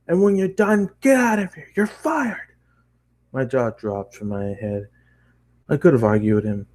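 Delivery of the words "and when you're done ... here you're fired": much higher, clipped boss voice; boss firing. Acted. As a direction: dismiss him coldly like the boss. Boss fires him.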